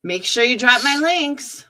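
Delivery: whispered mimicry of the streamer's plea; mocking whisper of a begging streamer. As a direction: breathe it out like a sneaky beg.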